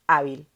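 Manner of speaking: hábil with the weight on há; stress on first syllable. Shown as a demonstration. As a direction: punch the há of hábil, let bil fall. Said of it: "Sílaba tónica, penúltima".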